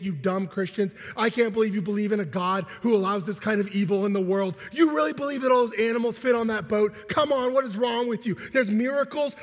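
imitated scoffing tirade, building in intensity; belligerent mockery. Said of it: "Just belligerent".

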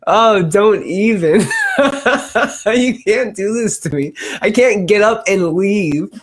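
high laughing protest; laughing mock outrage. Real, not acted. Host protesting to teasing co-host, laughing.

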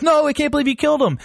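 hammed-up captain losing it; mock freak-out. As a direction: blurt it out in a rush, alarmed. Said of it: "he was freaking out".

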